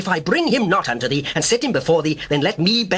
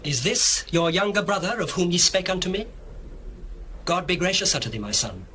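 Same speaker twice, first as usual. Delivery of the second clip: moved, tender blessing; 5 dB quieter than usual. Acted. Joseph blessing his brother Benjamin, softly and near tears. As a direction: bless him gently, close to tears. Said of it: "his bowels did yearn upon his brother".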